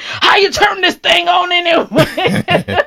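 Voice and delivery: put-on old man character. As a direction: play a cranky old-timer baffled by the mic. S0 plays old man bit.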